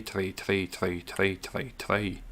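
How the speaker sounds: put-on Irish accent. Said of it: "can do me Irish accent".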